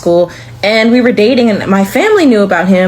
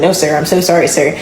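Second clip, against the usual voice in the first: lower, timid "sir" apology; nervous apology; 5 semitones lower than usual. Retold or imitated. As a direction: shrink back before the stern father. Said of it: "I was super nervous".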